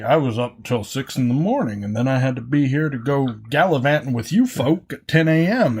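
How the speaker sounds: sing-song teasing impression; teasing retold complaint with swooping pitch; mocking imitation. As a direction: mimic a friend's tone, lightly exaggerated. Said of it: "you had that tone in your voice".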